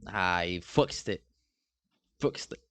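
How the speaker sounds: slow mock British accent with twisted vowels; laboured fake British accent; bad British accent. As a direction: try it slowly in a put-on British accent. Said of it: "like, a British accent".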